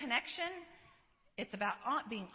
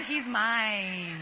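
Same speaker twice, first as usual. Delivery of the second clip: proud; 2 semitones lower, 8 dB louder than usual. Retold or imitated. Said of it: "I said".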